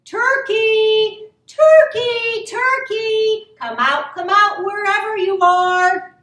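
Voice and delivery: loud, high singsong call. A narrator's reading. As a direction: call across a barn for someone hiding. Farmer calls for hidden turkey.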